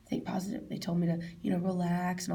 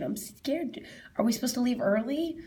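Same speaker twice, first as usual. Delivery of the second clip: mildly anxious re-enacted question, higher; retold scared appeal; 4 semitones higher than usual. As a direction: appeal for attention with a touch of fear. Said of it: "trying to get people's attention".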